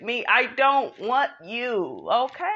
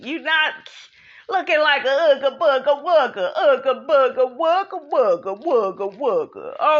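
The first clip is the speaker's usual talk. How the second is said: mock caveman grunting chant; 3 semitones higher than usual. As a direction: ooga booga in a caveman voice. Mocking his looks.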